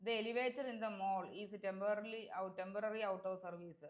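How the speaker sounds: slow, deliberate read-aloud of the test sentence. Shown as a demonstration. Teacher reading an exam sentence slowly to students. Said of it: "teacher reads exam sentence slowly".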